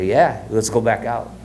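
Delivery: put-on slow, eager kid's yes. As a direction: sound keen to go again. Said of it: "I go".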